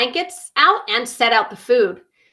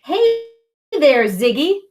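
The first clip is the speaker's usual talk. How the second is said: a friendly call across the clearing; 4 semitones higher, 3 dB louder than usual. Acted. Bradley greeting Ziggy at the picnic, calling out. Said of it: "called Bradley".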